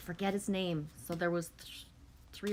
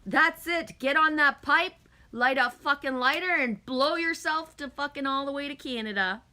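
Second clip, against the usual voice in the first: loud, laughing egging-on; excited shouting; 7 semitones higher, 8 dB louder than usual. Real, not acted. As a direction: hype Alex up at full volume. Laughing excited hype at Alex.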